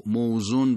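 موزون said "mo-zun" with light z; everyday Persian موزون, no heavy ḍād; Persian pronunciation. Shown as a demonstration. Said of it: "ما تو فارسی عادت داریم".

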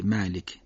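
"مالک" with a thin, fronted long "a"; careful Arabic demonstration; light alef. Shown as a demonstration. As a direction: say "مالک" lightly, not with a dark Persian "aa".

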